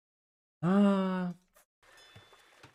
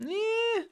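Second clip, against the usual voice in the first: camel sound. Pretend. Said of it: "is that the sound this camel's making".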